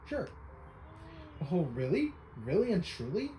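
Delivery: a hint of a fussy old inventor; lightly voiced eccentric researcher. Voicing the researcher asking Link to be his assistant, lightly hammed. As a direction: play the pictobox enthusiast, theatrical and eager. Reads NPC lines in voice.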